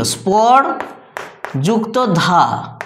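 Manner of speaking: স্পর and ধা split apart with a pause; teacher spelling out syllables. Shown as a demonstration. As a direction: break স্পর্ধা into স্পর, then ধা, slowly. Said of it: "অর্থাৎ শব্দটা এইরকমভাবে ছিল".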